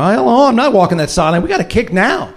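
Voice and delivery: retold protest. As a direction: argue back urgently, reenacting the dispute. Retold argument over kicking now.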